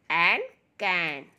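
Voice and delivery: drawn-out blending into मैन; slow phonics blend. Shown as a demonstration. Teacher blending sounds slowly for children. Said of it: "सी का sound आता है क".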